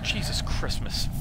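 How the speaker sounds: whispered oath. Real, not acted. Scared exclamation in dark woods.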